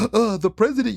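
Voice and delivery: hammed-up outrage at the president; mock shocked gasp. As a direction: parody the media's fake shock. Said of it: "doing your little fake ass".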